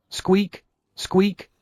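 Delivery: high frightened rabbit squeaks; two quick high squeaks; alarmed squeaks. Acted. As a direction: squeak out like scared bunnies.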